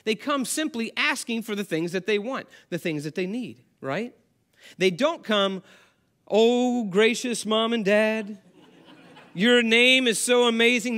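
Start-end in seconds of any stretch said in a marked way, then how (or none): 6.3-11.0 hammed-up, laughing flattery of parents; butter up mom and dad with a laugh; mock flattery. Child flattering parents before asking, mock and laughing.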